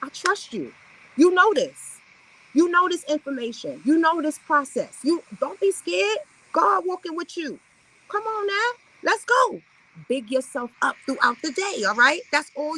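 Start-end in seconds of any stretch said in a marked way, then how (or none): 0.0-9.6 building from calm to a high, hyped rally cry; self-coaching that climbs into a cheer; pep talk to self. Shown as a demonstration. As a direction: hype yourself up, rising to higher. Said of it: "you have to tell yourself".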